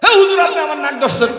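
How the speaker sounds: high, loud, whining complaint; high mock whine; whiny protest. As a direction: squeal like a silly fool. Voicing the fool's protest.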